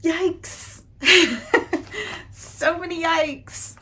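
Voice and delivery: high, laughing cringe; laughing yikes. Real, not acted. Reacting to the plot.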